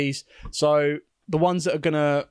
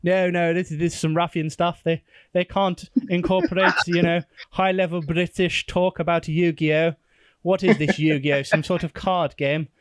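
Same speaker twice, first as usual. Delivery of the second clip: posh British voice; 2 semitones higher than usual. Retold or imitated. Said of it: "all of one of our posh listeners".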